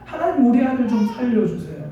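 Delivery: acted remorseful plea, swelling then easing; tearful pleading prayer. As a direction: plead to God like a mother near wailing. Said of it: "통곡하기 시작하는 겁니다".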